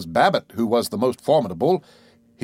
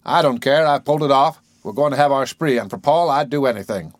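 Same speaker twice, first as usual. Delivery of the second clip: defiant; 2 semitones higher, 3 dB louder than usual. Acted. Babbitt defiantly reassures himself.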